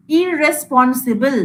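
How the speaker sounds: ইররেসপন্সিবল stretched out slowly; slow demo word. Shown as a demonstration. Teacher breaking down a word, slow demo. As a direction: draw out ইররেসপন্সিবল. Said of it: "তাহলে কি করে ভাঙছি দেখ".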